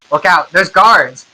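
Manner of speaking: yelled warning. Acted. Someone in the crowd warns others, mild yell. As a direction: call a warning over a crowd, half-hearted. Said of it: "somebody in the crowd yells".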